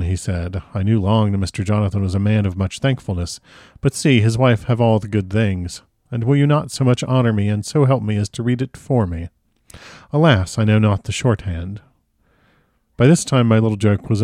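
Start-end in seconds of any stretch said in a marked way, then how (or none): 0.7-11.8 lightly voiced courteous foreign professor; a hint of the earnest doctor asking a favor; Van Helsing. Van Helsing asks her to read.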